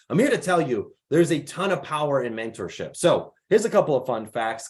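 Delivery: ordinary delivery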